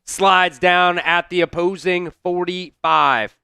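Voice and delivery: broadcaster-style game call; live play-by-play. Acted. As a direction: call each play like a TV announcer.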